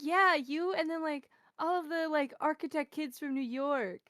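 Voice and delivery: a mild cheerful shopkeeper voice; cheerful chatter. Retold or imitated. The gelato owner recalling the students, lightly cheerful.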